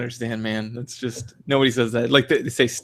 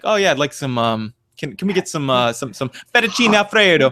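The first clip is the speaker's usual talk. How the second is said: mock Italian accent; 5 semitones higher than usual. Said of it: "whenever it's like".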